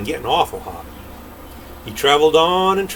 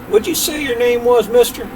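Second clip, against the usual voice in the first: voiced Jack; 10 semitones higher, 5 dB louder than usual.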